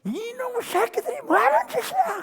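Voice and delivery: 훨씬 높은 목소리로 흉내 낸 분노; 한 톤 높여 몰아치듯 꾸짖어; storming rage. Retold or imitated. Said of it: "아마 질풍노도처럼". (훨씬 높은 목소리로 질풍노도처럼 꾸짖는 흉내)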